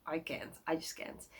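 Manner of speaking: fading to a soft near-whisper; reluctant, ending in a hushed breath; retold reluctance. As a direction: trail off as if you can't bear it. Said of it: "I was like".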